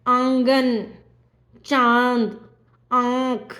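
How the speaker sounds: आंगन, चांद, आंख with long nasal vowels; nasalised vowels. Shown as a demonstration. Teacher gives anunasik examples, nasal आंगन, चांद, आंख. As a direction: say आंगन, चांद, आंख slowly apart, through nose and throat. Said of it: "नाक और गले दोनों से उच्चारित".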